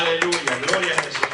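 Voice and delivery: loud joyful hallelujah; fervent praise. Real, not acted. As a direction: shout praise to the congregation. Preacher exclaims praise. (aleluya fuerte y gozoso)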